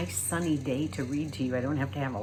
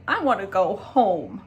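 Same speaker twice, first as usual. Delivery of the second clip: louder, pleading cry for home; boy begging to go home; boy pleading with Flora; sad plea; 4 semitones higher, 4 dB louder than usual. A narrator's reading. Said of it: "William Spiver's sad, beautiful sentences".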